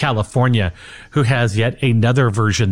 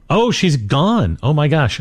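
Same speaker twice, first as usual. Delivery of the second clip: real surprise; 4 semitones higher than usual. Real, not acted. Host finds caller has hung up.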